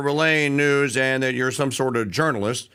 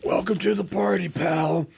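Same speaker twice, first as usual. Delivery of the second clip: lightly voiced movie catchphrase, a bit higher; Bruce Willis line; 5 semitones higher than usual. Host repeats the movie catchphrase for listeners. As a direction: toss off the movie quote again. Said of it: "it's Bruce Willis that says it".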